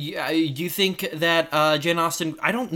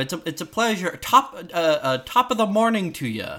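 fake Irish accent; 4 semitones higher than usual. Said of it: "We don't say that anymore".

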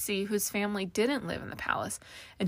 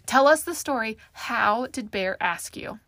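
eager demand; 2 semitones higher, 7 dB louder than usual. A narrator's reading. Kathy pushing forward for Carmel's proposal story, eager. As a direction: beg eagerly to hear the story.

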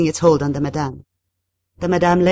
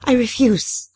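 high-pitched, firm defiance; resolute, raised voice; defiant refusal; 7 semitones higher, slower than usual. A narrator's reading. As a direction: refuse with your pitch lifted. Narrator defies the spirit.

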